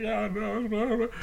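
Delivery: soft, high, repeated retold reply; meek agreement. Driver admitting fault to the officer, mock meek. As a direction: give in meekly, tripping over yourself. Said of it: "I was like".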